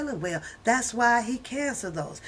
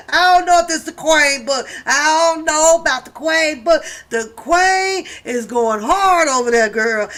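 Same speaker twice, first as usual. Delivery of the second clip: louder, higher, quick hyped reaction; loud excited reaction; 4 semitones higher, 7 dB louder than usual. Real, not acted. Reacting to the Queen's book to viewers, loud and hyped. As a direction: hype up the Queen's energy.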